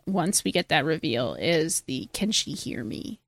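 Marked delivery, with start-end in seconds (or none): 2.1-3.2 unvoiced breathy whisper. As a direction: whisper it fearfully. Quoting film line, whispered.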